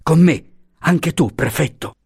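high urgent call; rally them to flee. Acted. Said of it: "Franco esclamò".

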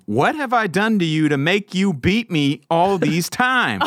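hurt donkey. Acted. Donkey asking Balaam why he beats it, high slow whine. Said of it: "I picture it just like on Shrek".

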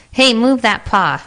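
crocodile shouting. A narrator's reading. Crocodile yelling at an animal crowding him, irritated. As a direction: shove the words at a clumsy neighbour. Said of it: "shouted the crocodile".

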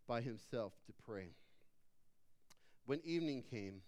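measured reading with long pauses, phrases falling low; scripture reading. A narrator's reading. Preacher reads Matthew fourteen to church, measured scripture reading. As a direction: read the passage solemnly, sinking at phrase ends. Reads the Bible passage aloud.

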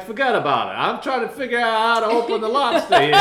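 high, loud and laughing through the words; laughing quote. Retold or imitated. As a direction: laugh it out while waving him off. Ignoring Luigi, laughing while quoting.

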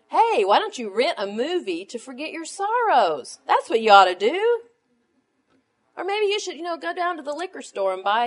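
sarcastic, exaggerated suggestions; loud sarcastic mock suggestions; mock advice. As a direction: ham up the silly worldly fix. Mocking worldly advice.

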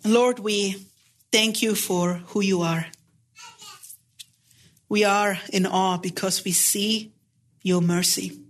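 hushed, steady prayer voice. Real, not acted. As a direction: speak to God humbly, unhurried. Leads closing prayer.

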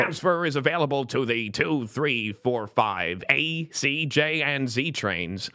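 lightly voiced subway announcement, slowing at the end; subway announcer voice. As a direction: read it like a transit announcer, careful and measured. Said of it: "who I was just imitating".

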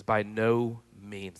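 slow, deliberate "By no means"; emphatic no. Retold or imitated. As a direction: lean hard on each word of "By no means". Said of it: "the most emphatic way to say no".

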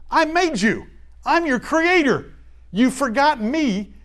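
a hint of God speaking, firm and deliberate; lightly voiced God. God reminding them He made them.

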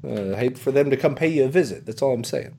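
lightly voiced mobster-like threat; Tom Nook. Salesman threatening to send his people, casual menace. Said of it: "He's like".

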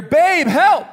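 high, loud cry for help; retold scream, pitched high; mock scream for help. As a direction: cry out as a panicked wife. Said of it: "I hear this blood-curdling scream".

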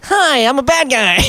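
high, slow hammy villain greeting; cheesy bad guy. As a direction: overplay a corny villain. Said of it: "Usually it's like".

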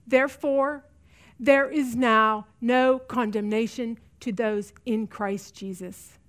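slow and quiet, dropping away on "Christ Jesus"; tender assurance, slowing and softening to the end; slow, soft scripture. Real, not acted. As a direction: lay the verse down gently, word by word. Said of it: "I want you to hear me on this".

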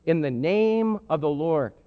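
slow, drawn out blessing; solemn acclamation. Retold or imitated. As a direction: let each word land. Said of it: "They say".

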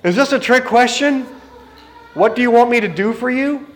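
mock-puzzled, as if the answer were obvious; incredulous. Bartimaeus wondering at Jesus' question, lightly incredulous. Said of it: "Bartimaeus had to be thinking".

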